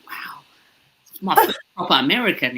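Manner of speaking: hushed, starstruck whisper; whispered amazement; awed whisper. Retold or imitated. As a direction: whisper it in awe. Starstruck on meeting Maz.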